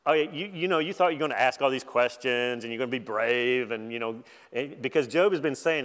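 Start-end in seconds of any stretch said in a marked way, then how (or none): 0.1-3.7 lightly sarcastic needling. Acted. God needling Job over his questions, sarcastic. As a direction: needle him with mild sarcasm. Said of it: "he's using sarcasm very effectively".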